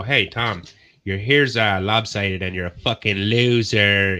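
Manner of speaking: acted-out taunt, last words drawn out; mock heckling. Acting out heckling Tom to his face.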